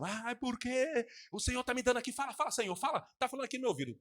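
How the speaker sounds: mock preacher hearing God. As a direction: ham up a pastor claiming God speaks in his ear. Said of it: "eu tô ali mexendo com a emoção".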